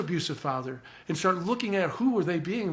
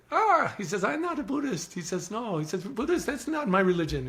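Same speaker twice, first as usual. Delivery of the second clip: protesting; 5 semitones higher than usual. Retold or imitated. Retells teacher's lively protest.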